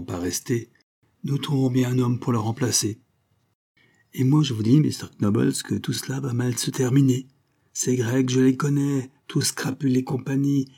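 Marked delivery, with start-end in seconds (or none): 4.1-10.7 agitated Wackstein. Acted. Wackstein rants to Knobbles about the Greek, high and frantic. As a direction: rant it out in a panicky rage.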